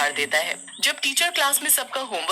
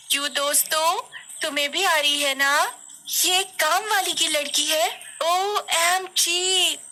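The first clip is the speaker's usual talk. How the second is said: put-on higher-pitched, haughty rich kid; snobbish schoolgirl bully; 7 semitones higher than usual. A narrator's reading. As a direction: look down on the maid's daughter with contempt. Plays Leena mocking Kosi.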